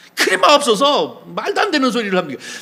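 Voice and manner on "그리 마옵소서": protesting, not sweet, high and loud. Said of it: "항변한다는 얘기 곱게 웃으면서 얘기하는 게 아니에요".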